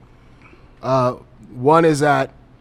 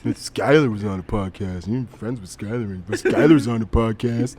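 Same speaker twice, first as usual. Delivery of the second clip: sulky, laughing whine, listing everyone else; butthurt girlfriend voice. Retold or imitated. Girlfriend listing who got on the podcast, laughing sulky whine. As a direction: put on the sulk, half laughing. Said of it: "the voice I'm gonna make is a butthurt voice".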